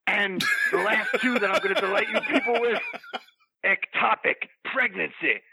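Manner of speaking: lightly played wrestler hype voice; wrestling promo. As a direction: hype up the roster. Promo character lists wrestlers.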